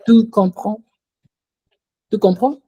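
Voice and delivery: a questioning lift on "comprends". Shown as a demonstration. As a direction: ask it purely through intonation. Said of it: "just by raising your voice".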